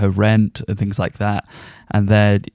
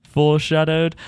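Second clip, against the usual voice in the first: high self-quote; 6 semitones higher than usual. Retold or imitated. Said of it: "I was like".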